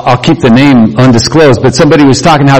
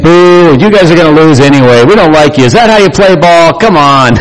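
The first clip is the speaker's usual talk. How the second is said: jeering cheerleaders; 5 semitones higher than usual. Acted. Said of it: "And they start saying".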